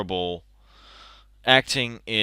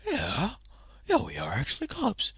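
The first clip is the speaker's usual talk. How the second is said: mock cop bragging; 11 semitones higher, 6 dB quieter than usual. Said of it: "Then they're like".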